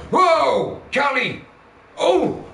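loud, high startled cry of a sudden stop; mock startled yelp. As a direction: yelp like someone who just crashed into a back. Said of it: "come to a sudden stop and go".

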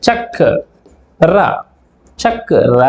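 చక్ర said as చక్ then ర; split syllables. Shown as a demonstration. Teacher showing pupils how చక్ర splits. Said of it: "ఎలా పలుకుతాం".

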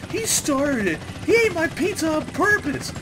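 put-on high, whiny tattling kid. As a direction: play the kid blaming his brother. Whiny kid blaming someone.

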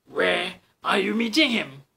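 a hungry fox pressing the mouse. Acted. Fox asks the mouse where, loudly.

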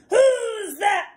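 slow, loud shouting troll; mean old troll. Acted. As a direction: roar it out slowly like a troll. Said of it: "said the mean old troll".

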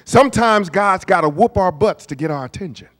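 put-on great-grandmother's Tennessee accent. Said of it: "in her Tennessee accent".

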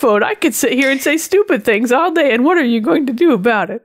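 smarmy, defiant assistant imitation; imitating cheeky assistant. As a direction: act out a voice assistant daring you to complain. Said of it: "he's just got this tone".

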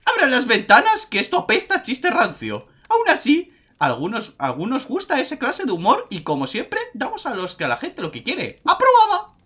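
high showman clown voice; silly clown. Acted. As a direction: announce it like a ringmaster clown. Clown judges the joke.

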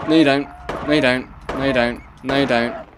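loud repeated no at an attacker; firm shout. Real, not acted. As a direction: bark it out at the dog. Fending off attacking dog.

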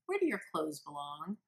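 soft friendly question. Shown as a demonstration. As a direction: ask it gently, no edge. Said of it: "in a very friendly tone of voice".

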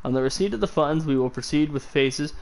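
calm, even letter reading; soothing reading voice. Acted. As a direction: read it like an audiobook narrator. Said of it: "I have such a soothing voice".

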